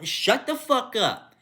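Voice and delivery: loud, high, slow shout; snapping at the excuse-makers, furious; angry snap. Real, not acted. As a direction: bite it off in real anger.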